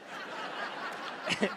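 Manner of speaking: high, thin fake dying gasp; mock death cry. Comic faking being shot, high yelp. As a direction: play dead with a high yelp.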